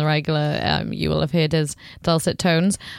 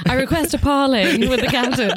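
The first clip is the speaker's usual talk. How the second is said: higher, hammed-up pirate line; 6 semitones higher than usual. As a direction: quote the film like a pirate. Quoting Pirates film line.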